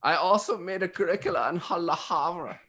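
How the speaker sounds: lightly put-on German accent. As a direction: slip back into mock German. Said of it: "I'm just talking in a German accent".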